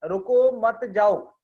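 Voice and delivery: loud रुको, a break, then मत जाओ; रुको stands alone and loud, मत जाओ follows as one unit; pause after रुको. Shown as a demonstration. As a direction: put a comma after रुको, keeping मत जाओ together. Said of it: "के बाद में कॉमा लगाया".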